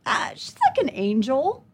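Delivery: slow, tentative improvised answer; stall, then offer it like a question; caught off guard. Retold or imitated. Mom trying to get her story back on, caught off guard. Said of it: "I was deer in headlights".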